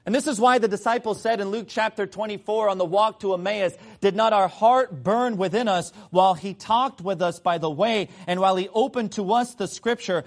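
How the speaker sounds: emphatic sermon delivery, hammering each phrase; impassioned preacher in full flow; forceful preaching. Real, not acted. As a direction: drive the point home to the congregation.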